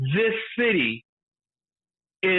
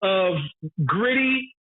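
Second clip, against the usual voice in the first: pitched high, riding on laughter; hyped-up rant; 5 semitones higher than usual. Real, not acted. Speaker crowns the worst police for friend, hyped up. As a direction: crow it like crowning champions.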